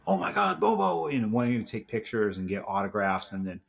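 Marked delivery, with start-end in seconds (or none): 0.1-1.1 high, excited fan squeal; imitating excited fans. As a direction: echo the fans shouting his name in the terminal. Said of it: "are yelling at him".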